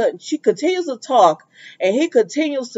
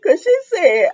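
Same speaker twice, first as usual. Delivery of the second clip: giggling through the words; can't stop laughing; laughing high and slow; 12 semitones higher, slower than usual. Real, not acted. Laughing while retelling.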